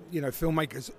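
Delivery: throat catching while speaking; coughing. Real, not acted. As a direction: talk through a tickly cough. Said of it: "I'm coughing".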